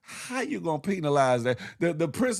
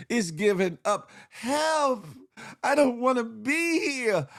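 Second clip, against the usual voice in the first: put-on disgusted kid; 3 semitones higher than usual. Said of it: "little man is like".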